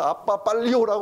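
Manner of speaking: retold shout. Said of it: "소리를 지르는 거예요".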